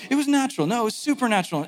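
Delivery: quick retort, high and contradicting; mock squabble. Crowd fighting over the source of the voice, mock bickering. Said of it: "now they start fighting".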